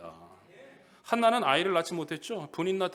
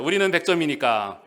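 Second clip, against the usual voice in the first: congregation-style loud unison echo; loud repeat-after-me chant; loud call and response; 9 dB louder than usual. Shown as a demonstration. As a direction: shout it back together. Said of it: "다 같이 따라해보세요".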